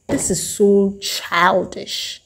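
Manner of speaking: drawn-out, unimpressed scoff; a slow, put-on sneer; slow disdain. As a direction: say it slowly, rolling your eyes. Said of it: "I'm like".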